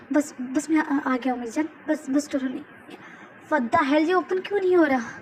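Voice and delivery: fumbling and frantic; husband fighting a stuck door, panicking; panicked. Acted. The speaker struggles with door.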